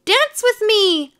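high, loud, drawn-out demand; clamoring admirers' squeal; crying out. A narrator's reading. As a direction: beg loudly for a dance. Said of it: "they cried".

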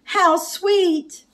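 high, delighted coo; high, sweet storybook exclamation. A narrator's reading. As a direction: coo over the puppies. Edna delighted by the puppies.

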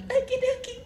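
high-pitched, put-on mom voice; forty-year-old mom. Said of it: "like, a forty-year-old mom".

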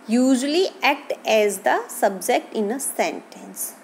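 reading a definition slowly, word by word. Acted. Teacher reading a definition to students, slow and deliberate. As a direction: spell out the definition for the class.

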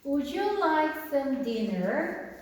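very slow, every word laid out for learners; slow, careful classroom English; slow model reading. Shown as a demonstration. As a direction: read it slowly like a teacher modelling. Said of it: "핵심 문장 두 문장을 볼게요".

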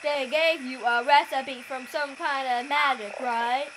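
a hint of a toad voice; frog voice. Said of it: "I need to think of a frog voice".

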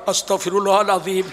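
mock repentance breaking into laughter; acted crazed laugh after a pious phrase; crazy laughing istighfar. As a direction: say the prayer, then cackle madly. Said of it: "Itu gila, itu gila".

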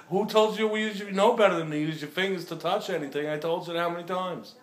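scolding. Real, not acted. Scolding partner for using fingers.

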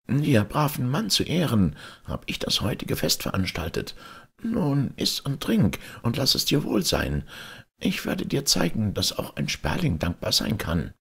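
high, small bird voice, friendly; grateful sparrow voice. A narrator's reading. Sparrow welcoming the old man to the feast, high and friendly. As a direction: welcome him warmly as a tiny bird.

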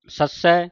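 ਸੱਸੈ with a firmly doubled middle "s"; tight ਸੱਸੈ. Shown as a demonstration. Teacher coaching pronunciation, tightly held ਸੱਸੈ. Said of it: "ਕੱਸ ਕੇ ਬੋਲਣਾ".

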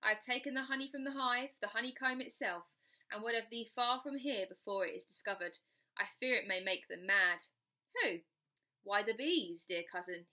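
a hint of a courtly ghost, coaxing; mysterious cavalier cousin, lightly played; ghost cousin Walter.

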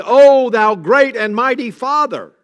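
put-on booming, slow, high and loud like an old-style prayer; grand formal prayer voice. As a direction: intone it like a lofty King James prayer. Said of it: "he's not saying".

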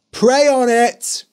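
slow, loud call from outside. Acted. Father calling to Tobias through the locked door. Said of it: "called his father".

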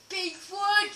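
high, playful interjection; silly exclamation. Pretend. Player interrupting friend's outro, silly exclamation. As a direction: blurt it out as a running joke. Chanting wood name as joke.

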